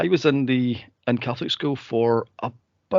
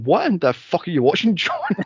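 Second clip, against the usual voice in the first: mum's reaction; 4 semitones higher than usual. Retold or imitated. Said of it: "she was going".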